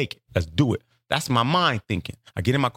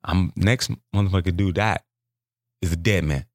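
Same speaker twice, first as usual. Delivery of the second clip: dark inner resolve; 5 semitones lower than usual. Retold or imitated. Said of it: "I'm like".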